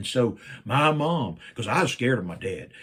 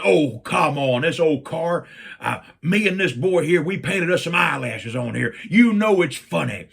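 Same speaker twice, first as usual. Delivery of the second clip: coaxing mom; 4 semitones higher, 7 dB louder than usual. Retold or imitated. Mom coaxing upset dad.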